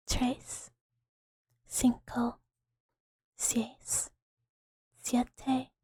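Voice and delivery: slow, soft Spanish count with long pauses. Shown as a demonstration. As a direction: count slowly, leaving space after each number. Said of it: "but slow".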